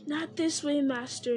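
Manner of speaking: high, begging creature voice; pleading. Acted. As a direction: plead at his master's feet. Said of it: "he pleaded".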